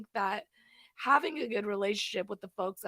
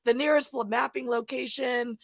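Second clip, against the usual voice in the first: loud all-units broadcast; police radio; 7 dB louder than usual. Retold or imitated. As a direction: announce it over the radio.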